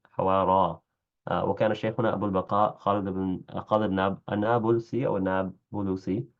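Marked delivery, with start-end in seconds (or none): 4.3-5.1 النابلسي with u after the b, none after l; formal Nabulsi. Shown as a demonstration. Teacher offering a first form, النابلسي said an-Nabulsi. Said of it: "أو النابلسي". 5.2-6.3 النابلسي with u after both b and l; fully vowelled Nabulusi. Shown as a demonstration. Teacher offering a second form, النابلسي said an-Nabulusi. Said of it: "أو النابلسي".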